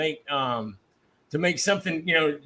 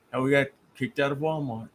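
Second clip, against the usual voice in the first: understated, deadpan mimicry; dry punchline delivery; 3 semitones lower, 4 dB quieter than usual. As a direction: drop the punchline dryly after a pause. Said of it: "'cause you just look, and that's".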